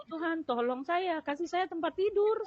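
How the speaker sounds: slow, soft begging; slow pleading prayer. Retold or imitated. Patient begging God for a bed, slow and soft. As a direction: drag each word, asking God for a bed. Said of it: "saya bilang gitu".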